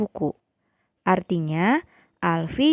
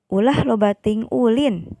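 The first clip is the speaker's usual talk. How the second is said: slightly raised voice, firm prohibition; rather forceful prohibition; 4 dB louder than usual. Shown as a demonstration. Teacher demonstrates a prohibition sentence for pupils, rather forceful. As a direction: read it out as a firm warning. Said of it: "rada bedas".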